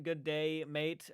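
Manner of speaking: light attempt at an Aussie accent; casual Australian greeting, lightly imitated; a hint of Australian accent. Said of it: "But with the Aussie accent".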